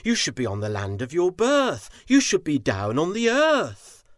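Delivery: frowning, firm but gentle, swelling to the end; Shao, gently stern. Acted. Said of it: "He gently asked, with a frown".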